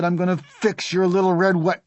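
high, loud angry threat; threatening boy. A narrator's reading. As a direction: threaten him loudly until cut off. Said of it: "Harry said".

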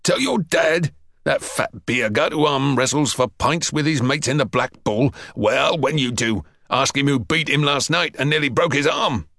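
lightly voiced scornful PT master; derisive sergeant. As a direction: ridicule the threat, pitch lifting at points. Sergeant mocks the bully's threat.

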